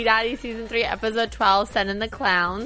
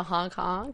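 clown honks and squeaks; 3 semitones lower, 7 dB quieter than usual. Shown as a demonstration. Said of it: "What noise do clowns make?".

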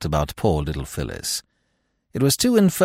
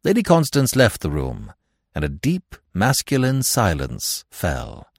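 usual speaking voice

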